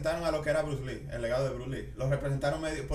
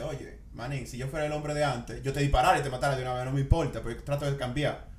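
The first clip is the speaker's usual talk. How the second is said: retold movie gangster; 2 semitones lower, 3 dB quieter than usual. Gunman sparing the man who robbed him, quietly acted. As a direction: speak softly, holding someone at gunpoint. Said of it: "le dice".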